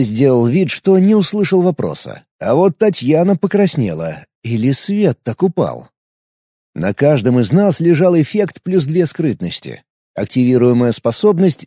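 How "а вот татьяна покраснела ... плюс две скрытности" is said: usual speaking voice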